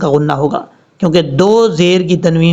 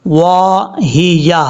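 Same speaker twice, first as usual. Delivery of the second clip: drawn-out chanted tajweed reading; slow Quran recitation; much slower than usual. Shown as a demonstration. Teacher reciting verse slowly for students. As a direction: recite slowly, stretching each sound.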